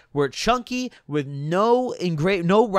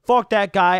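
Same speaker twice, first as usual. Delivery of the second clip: angry; 3 semitones higher, 6 dB louder than usual. Real, not acted. Angry dismissal of Dan.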